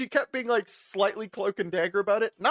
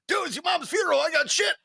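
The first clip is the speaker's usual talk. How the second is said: incredulous outburst; 10 semitones higher than usual. Retold or imitated. Driver retells his reply.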